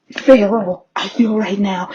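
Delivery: mock feral. Hammed-up feral claim.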